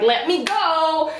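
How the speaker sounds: slow, insistent retold demand; acted plea. Acted quote during the fight.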